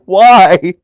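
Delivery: high, loud mock wail; hammed-up cry of protest; Roddy. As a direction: plead it like a wronged victim. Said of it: "And Roddy's like".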